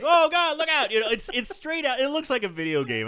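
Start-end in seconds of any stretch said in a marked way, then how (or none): 0.0-0.9 high, loud mock panic; panicked warning. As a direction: yell a warning in a hammed-up panic. Acting out panicked hero.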